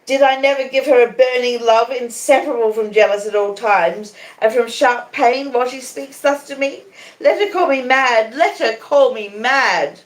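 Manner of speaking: put-on high, loud anguished old woman; lightly voiced old woman, wild and wounded; Miss Havisham pleading. A narrator's reading. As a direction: plead wildly, hurt and jealous.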